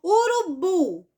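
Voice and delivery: "Urubu" slow, with a long BU; stressed last syllable. Shown as a demonstration. Teacher giving another example, "Urubu" stressed on BU. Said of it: "vou dar mais um exemplo dessa".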